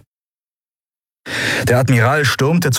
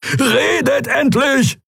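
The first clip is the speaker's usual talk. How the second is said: drawn out, much higher; a hint of a roar; much slower than usual. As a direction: bellow at them to talk. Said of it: "brüllte Keru".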